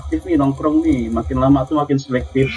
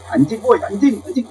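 calling out; 8 semitones higher than usual. Shown as a demonstration. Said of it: "coba aja panggil orang tuh".

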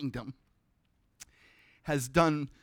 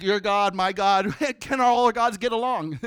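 mock chummy tone; 5 semitones higher, 6 dB louder than usual. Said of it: "be like".

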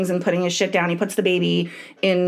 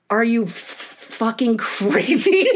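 stunned husband; slower than usual. Retold or imitated. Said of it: "I know he said something like".

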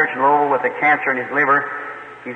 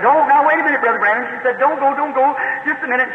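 retold crying plea; 10 semitones higher than usual. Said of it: "She's crying, poor little fellow".

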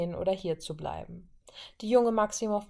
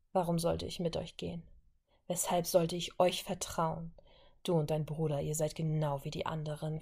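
bitter, softer curse; 3 dB quieter than usual. Acted. Violet refusing Wanda's help, bitter and soft. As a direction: spit out distrust quietly. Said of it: "fluchte sie, und ihre Stimme klang verbittert".

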